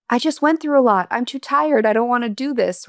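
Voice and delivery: mock tired excuse. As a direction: play the worn-out excuse-maker. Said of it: "I could have been like".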